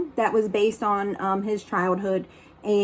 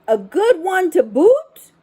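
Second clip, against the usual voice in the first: higher, louder crew echo; pirate crew chorus; 7 semitones higher, 5 dB louder than usual. Acted. Pirate crew agreeing about the digger, higher rowdy echo. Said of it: "the others agreed".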